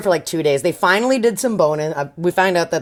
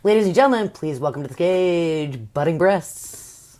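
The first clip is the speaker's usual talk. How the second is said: announcer voice. Pretend. Mock stage introduction.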